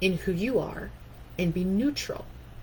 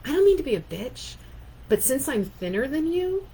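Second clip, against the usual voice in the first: imitating catty coworker; 5 semitones higher than usual. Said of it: "because she said".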